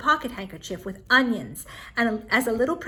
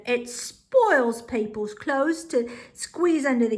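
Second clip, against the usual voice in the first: Benjamin voice; slower than usual. Acted. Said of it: "Little Benjamin said".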